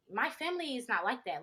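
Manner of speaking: ordinary delivery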